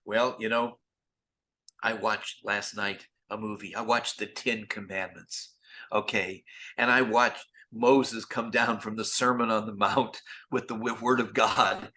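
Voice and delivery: lightly voiced, playing it lofty; grand tone. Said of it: "think of himself kinda like Winston Churchill".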